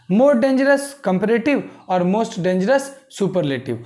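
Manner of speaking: slow and deliberate; dictating pace; slow dictation. Shown as a demonstration. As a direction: read it out for copying. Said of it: "teacher dictating slowly".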